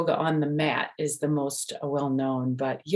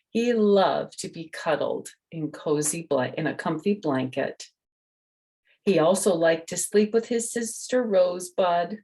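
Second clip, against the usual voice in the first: put-on reading to children; 3 semitones higher than usual. A narrator's reading. Reads the picture book aloud.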